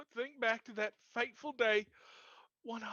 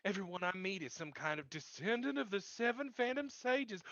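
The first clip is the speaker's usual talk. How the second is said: sarcastic; 6 semitones lower than usual. Acted. Sarcastic reply to claim.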